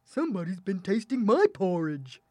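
lightly voiced middle-sized bear; a milder character voice for the middle bear. A narrator's reading. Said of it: "middle-sized bear looked into his bowl and said".

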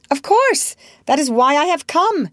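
put-on high-pitched, emphatic, mildly stern boy; a little stern. A narrator's reading. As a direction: state it as obvious, slightly sternly. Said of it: "he added a little sternly".

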